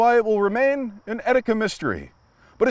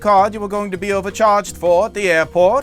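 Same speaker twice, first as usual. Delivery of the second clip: announcer narrator; 3 semitones higher than usual. Acted. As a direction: read the sponsor pitch like a trailer announcer. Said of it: "I'm a narrator".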